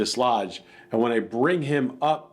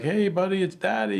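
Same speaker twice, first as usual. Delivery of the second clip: higher sing-song voice for the dog; pet talk to dog; 9 semitones higher than usual. Retold or imitated. Wife recalling how he talks to the dog, higher pet voice. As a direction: coax him like a kid, pitched up. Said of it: "just how you always talk to him".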